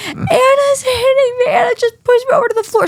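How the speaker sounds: hammed-up crybaby wail; mock fake crying. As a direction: whine like a faker playing victim. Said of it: "starts screaming".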